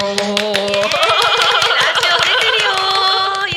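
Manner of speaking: drawn-out, high, loud call. Acted. Shouts the child's line aloud.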